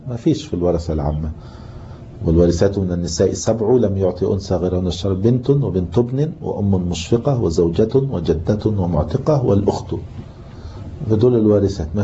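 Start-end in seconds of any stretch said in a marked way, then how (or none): 2.2-9.9 measured recital of a teaching poem; verse recitation. Acted. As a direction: recite the verse evenly in classical Arabic.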